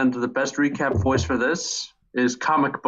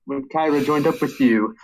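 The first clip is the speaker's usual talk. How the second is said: lightly voiced nerdy comic shop owner; a hint of a smug, nasal know-it-all; Comic Book Guy. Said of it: "get Comic Book Guy's voice down".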